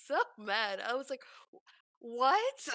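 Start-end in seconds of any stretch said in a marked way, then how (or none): 1.5-2.7 exasperated what. Retold or imitated. She was so mad at cook.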